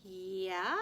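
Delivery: loud, sharp retort; spat back. A narrator's reading. Boy spits back at the girl, loud and sharp. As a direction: spit the word back at him. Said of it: "I spat back".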